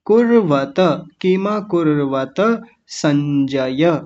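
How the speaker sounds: even, deliberate chant of the verse line; slow Sanskrit recitation. Shown as a demonstration. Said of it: "एक एक शब्द को मैं फिर से बताता हूँ".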